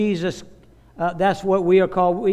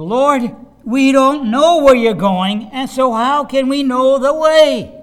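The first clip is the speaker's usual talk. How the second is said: high, loud, plaintive, play-acted whining; 6 semitones higher, 6 dB louder than usual. Retelling Philip's question to the Lord in a Bible passage, mimicking Philip's whining. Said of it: "you can hear it in the whiny voice".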